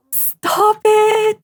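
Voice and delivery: high squeaky stop it; overwhelmed by cuteness; squealing delight. Real, not acted. Player discovering the read to baby option, squealing.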